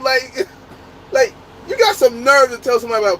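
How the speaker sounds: high, laughing retort breaking into giggles; cracking up mid-rant about the teammate; laughing disbelief. Real, not acted. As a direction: laugh through the outrage at him. Laughing at crack-smoking teammate's hypocrisy.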